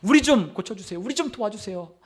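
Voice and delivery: mildly imploring father; acted plea to be healed; pleading request. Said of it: "그렇게 예수님께 요청하는 거예요".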